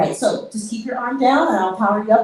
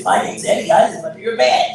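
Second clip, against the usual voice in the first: creepy playful under bed whisper; 4 semitones lower, 4 dB louder than usual. Acted. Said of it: "Stop it".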